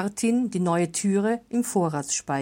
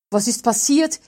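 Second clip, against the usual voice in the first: louder, higher startled question; startled cry; 4 semitones higher, 5 dB louder than usual. A narrator's reading. Martin arriving at the granary, startled cry. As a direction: Martin bursts out in alarm. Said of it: "rief er erschrocken".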